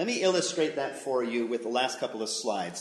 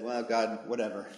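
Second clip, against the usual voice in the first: resigned shrug; 3 semitones lower than usual. Acted. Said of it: "throws up his hands".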